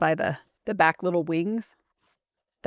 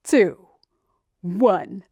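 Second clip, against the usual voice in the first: countdown call; 5 dB louder, much slower than usual. Pretend. Countdown calling out.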